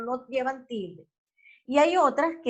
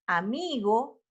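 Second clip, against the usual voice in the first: "amigo" with the force on middle "mi"; stress on penultimate syllable; slower than usual. Shown as a demonstration. Teacher gives an example of graves, "amigo" stressed on "mi". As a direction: lean on "mi" in "amigo". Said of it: "el acento fonético recae sobre la penúltima sílaba".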